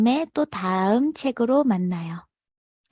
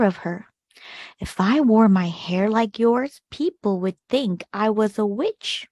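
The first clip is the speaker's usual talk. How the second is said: put-on gentle read-aloud for children, measured pace; storybook narration; much slower than usual. A narrator's reading. Teacher reading a picture book to kids, expressive narration. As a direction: tell the tale to a class of young listeners.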